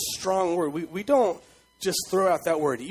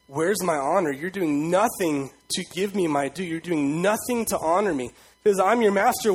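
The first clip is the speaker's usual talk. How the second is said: forceful rising demand, getting louder; God demanding honor; 4 dB louder than usual. Acted. Preacher voicing God rebuking his people, louder and forceful. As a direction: voice God's grievance, building to a loud rebuke. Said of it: "And he says".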